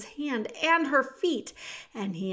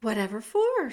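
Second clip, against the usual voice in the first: annoyed; 4 dB louder than usual. Acted. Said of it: "in an annoyed tone".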